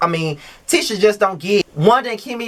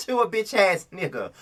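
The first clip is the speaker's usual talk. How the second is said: same insult, much softer, at usual pitch; quieter repeat; 6 dB quieter than usual. Real, not acted. Vlogger repeating the insult to the star, quieter.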